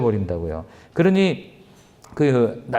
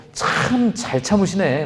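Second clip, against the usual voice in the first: sarcastic grumble; 5 semitones higher, slower than usual. Retold or imitated. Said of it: "막 이러면서 그냥 투덜투덜대면서".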